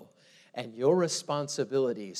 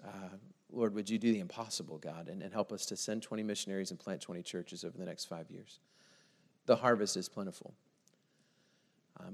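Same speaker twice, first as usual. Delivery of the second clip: prayer; faster than usual. Acted. Leads a prayer.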